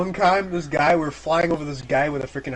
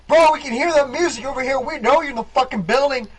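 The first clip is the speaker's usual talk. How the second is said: mock-angry high callout; heated retold callout; 9 semitones higher than usual. Player confronts hidden music listener, mock-angry. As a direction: pitch it up, confronting him across the game.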